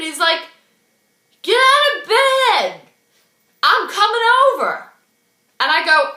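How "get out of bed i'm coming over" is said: bossy shouted order. Retold or imitated. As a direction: holler it down the phone as him. Acted bossy phone order from Brad.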